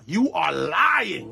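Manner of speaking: slow, drawn-out accusing; hammed-up outraged boyfriend; mock denial. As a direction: stretch it out in disbelief. Danny's imagined denial.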